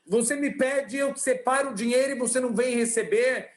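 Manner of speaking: a lightly played furious rich man; acted angry outburst. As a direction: tell him off, half-acted. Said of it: "o homem já atende soltando os cachorros".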